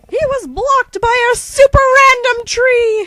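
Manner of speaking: high, lively mock-epic telling; excited narration. Narrator mid-battle, excited. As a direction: tell it with game hype.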